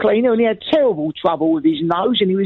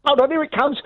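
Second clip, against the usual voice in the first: fast, eager, raised pitch; excited; 4 semitones higher, faster than usual. Real, not acted. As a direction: rush it out eagerly. Excited about an incoming fart.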